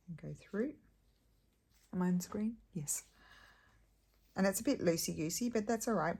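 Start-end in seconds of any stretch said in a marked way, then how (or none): 1.9-3.0 quick unvoiced whisper off to the side. Real, not acted. Crafter checking with whoever films, whispered. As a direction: whisper the question so the video isn't disturbed.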